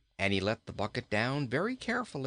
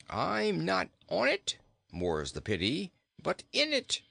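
put-on high, chuckling old king; cheerful king stuck in a well; jolly king voice; 7 semitones higher than usual. King speaks.

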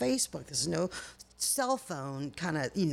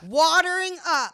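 tearing up; 9 semitones higher, 10 dB louder, slower than usual. Real, not acted. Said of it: "you see my eyes right now?".

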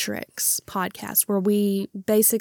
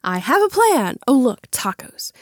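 excited quote; 4 semitones higher, 6 dB louder than usual. Retold or imitated. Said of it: "So the line is".

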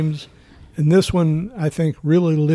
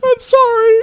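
laughing apology; 4 dB louder, slower than usual. Real, not acted.

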